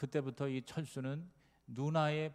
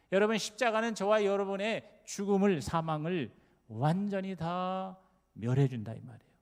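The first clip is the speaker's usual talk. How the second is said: loud, ringing sermon cadence; full-force preaching; 4 semitones higher, 7 dB louder than usual. Acted. Pastor proclaiming scripture on life to the church, ringing preaching. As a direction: preach it out to the whole congregation.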